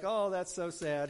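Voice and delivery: slow, drawn-out pitying "oh"; retold crowd sympathy.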